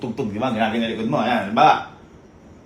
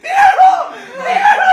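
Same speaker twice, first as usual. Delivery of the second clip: very high laughing yell; laughing shout; 10 dB louder than usual. Real, not acted. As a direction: shriek it through laughter. Laughing at friend's reaction. (tawang pasigaw)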